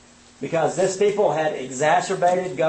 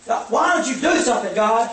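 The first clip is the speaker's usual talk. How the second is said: whining; 3 semitones higher, faster than usual. Retold or imitated. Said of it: "He's just whining".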